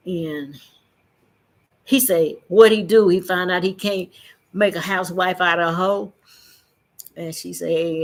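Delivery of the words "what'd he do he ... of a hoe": loud, scornful jab at the woman; mocking retort. Porch man mocks her for being left, loudly.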